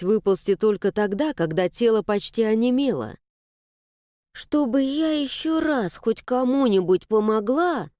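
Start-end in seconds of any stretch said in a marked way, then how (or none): 4.3-7.9 grumbling. Acted. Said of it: "пробурчала она".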